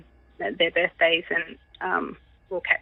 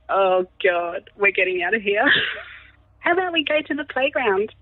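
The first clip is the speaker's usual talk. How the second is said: mock cheerful panic; 5 semitones higher, slower than usual. Spooked mum fleeing with toddler.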